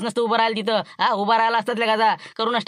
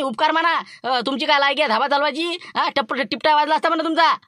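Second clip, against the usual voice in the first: heated retort; 5 semitones higher than usual. Acted. Quarrel heating up.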